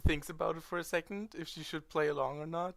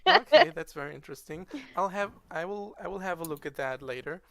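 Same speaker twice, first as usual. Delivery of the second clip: loud officious inspector; 3 semitones higher, 9 dB louder than usual. Acted.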